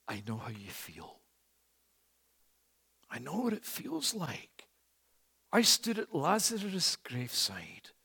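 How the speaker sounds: a hint of the Lord, hushed and tender; the Lord speaking. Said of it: "The Lord who says".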